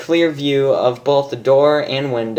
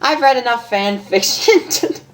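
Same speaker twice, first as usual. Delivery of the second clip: higher, laughing reassurance; Pinkie Pie voice; 8 semitones higher than usual. Acted. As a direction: reassure her with a giggle.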